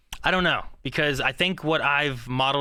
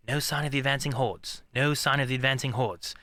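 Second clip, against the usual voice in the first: British accent rehearsal; 3 dB quieter than usual. Shown as a demonstration. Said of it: "I'll be back to, like".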